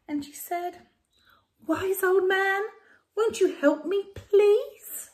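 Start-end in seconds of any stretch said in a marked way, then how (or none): 1.7-5.1 high, loud begging; pleading old lady. Acted. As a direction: beg the wise man desperately.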